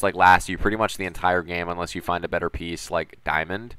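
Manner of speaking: pinched, strained throat; talking through a tight, tired throat. Real, not acted. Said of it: "my voice is so strained".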